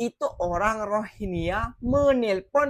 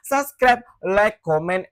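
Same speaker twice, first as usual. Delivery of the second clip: loud call-out; 6 dB louder, slower than usual. Real, not acted. YouTuber urging his viewers to subscribe, loud call-out. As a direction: punch each word out loud, like a hype call. Calls viewers to support channel.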